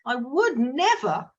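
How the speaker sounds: "I would never" drawn out slowly, stress on WOULD; slow, deliberate intonation. Shown as a demonstration. Coach demoing self-questioning prompt, slow and deliberate. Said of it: "in a different intonation of voice".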